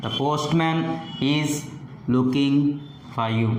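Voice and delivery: measured phrases, falling to a close. Shown as a demonstration. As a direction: demonstrate the pitch dropping at the sentence end. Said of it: "the pitch falls at the end".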